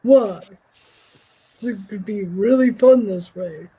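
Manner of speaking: low, deep heroic voice; bold heroic voice. Pretend. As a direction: speak like a grand hero. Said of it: "talking like this".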